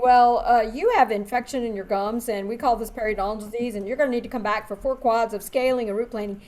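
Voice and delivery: a detached clinician listing treatments; the dentist reeling off a treatment plan flatly; lecturing doctor jargon. Retold or imitated. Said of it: "instead of saying".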